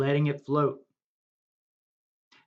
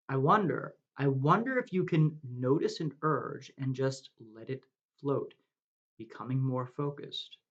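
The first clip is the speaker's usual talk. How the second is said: guided meditation. Acted. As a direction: lead them gently into the breath and the green.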